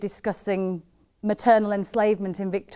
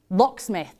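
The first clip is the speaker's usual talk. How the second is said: sudden recall; 4 dB louder than usual. Acted. Remembering an old crush's name, sudden recall. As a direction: say LOCKSMITH as the name comes back.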